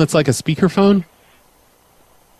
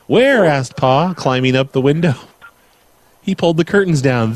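lilting picture-book narration; measured storybook delivery with swooping key words; bedtime story reading. Acted. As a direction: read to a child with sing-song emphasis. Reads a bedtime story aloud.

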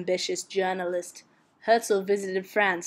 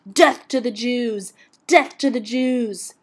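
slower, louder chant of an angry crowd, not a full scream; mock mob screaming; 3 semitones higher, 5 dB louder, slower than usual. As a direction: imitate a screaming mob, drawing the words out. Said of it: "mobs of Frenchmen screaming".

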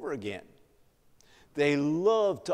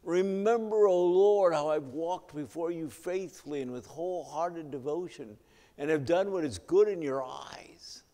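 retold plea to God, starting high; pleading cry; 4 semitones higher than usual. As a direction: cry out the opening, then ease off. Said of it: "And he cried bitterly".

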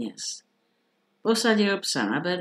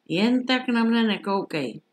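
higher-pitched, mildly raised exclamation; calling out; 5 semitones higher than usual. A narrator's reading. Soldier to the staring dog, calling out. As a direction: call it out, pitched up. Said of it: "zvolal voják".

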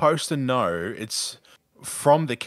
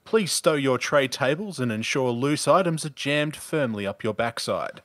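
mock pilot announcement. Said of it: "Go ahead, try us on. Give us one".

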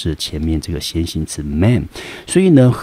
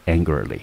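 "angrily" said alone, stressed on the first syllable; 4 dB quieter than usual. Shown as a demonstration. Teacher repeating the word for students, first-syllable stress. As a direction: repeat "angrily" as a model, AN-gri-ly, falling away. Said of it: "整个字重音节落在第一个音节".

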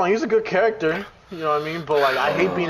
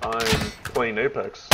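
low, drawn-out mock cockiness; smart-ass retort; 7 semitones lower, 5 dB quieter, much slower than usual. Gamer quoting a twelve-year-old's reply, smart-ass. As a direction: imitate a smart-ass kid, low and slow. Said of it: "Like a fucking smart ass".

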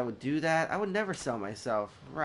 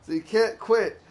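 higher and louder, the line done in the schoolgirl's falsetto; mock girlish falsetto; 8 semitones higher, 7 dB louder than usual. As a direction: parrot her words back in a high girly voice. Re-read of the line, high and loud.

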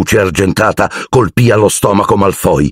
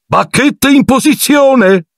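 high, slow showman's shout; shouted command; slower than usual. A narrator's reading. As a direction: drag out the order grandly. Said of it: "gridò Lockhart". (grido alto e solenne)

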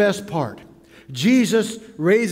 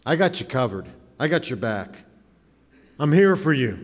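reassuring; 4 semitones lower than usual. Acted. Voicing God reassuring Moses.

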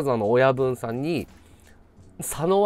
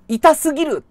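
cringing inner groan; 12 semitones higher, 6 dB louder than usual. Retold or imitated. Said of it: "と思って".

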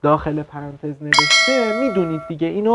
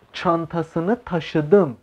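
çantasını taşıdım spoken extremely slowly for students; very slow reading; much slower than usual. Shown as a demonstration. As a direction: stretch çantasını taşıdım out, word by word. (çantasını taşıdım خیلی آهسته)

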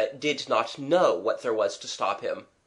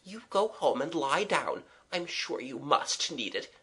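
higher, softening advice; gentle urging; 4 semitones higher, 3 dB quieter than usual. Acted. Kathleen sending the young man to lie down, gently. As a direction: urge him kindly, easing softer.

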